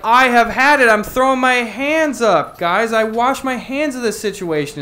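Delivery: hammed-up Oscar washing his hands of it; fed-up Oscar. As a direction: throw your hands up at it. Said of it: "he's like".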